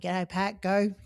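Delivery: mock shout to someone, held back; retold mild yell. Runner hailing an elite athlete before the start, mild retold yell. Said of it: "I yelled out to him".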